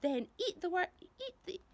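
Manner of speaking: high, loud centipede shout. Acted. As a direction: shout it out to save yourself. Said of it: "shouted the centipede".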